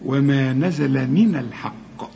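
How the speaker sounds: وما نزل من الحق slowly with a thin نون and a full heavy ق; slow recitation keeping من light; light nun, heavy qaf. Shown as a demonstration. Teacher recites to the student, slow and exact. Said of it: "هنرقق النون".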